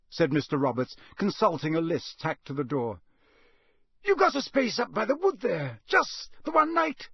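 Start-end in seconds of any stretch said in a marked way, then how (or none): 4.0-7.1 put-on a wary old Scots countryman; rustic campsite owner. Campsite owner voiced by narrator.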